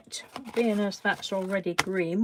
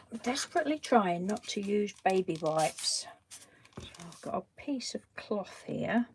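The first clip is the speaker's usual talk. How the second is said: whispering; 6 dB quieter than usual. Real, not acted. Whispering while painting.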